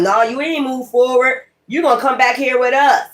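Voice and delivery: mimicking people begging you to return; mock pleading. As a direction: whine it like a clingy old friend. Mocking nostalgic people again.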